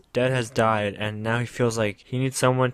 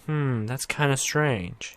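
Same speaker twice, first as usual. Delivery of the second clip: slow, hushed, mildly suspicious hum; suspicious musing; 4 dB quieter, much slower than usual. Retold or imitated. Everyone puzzling over the blonde girl, slow suspicious murmur. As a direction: drag it out like you smell a secret. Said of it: "everyone's like".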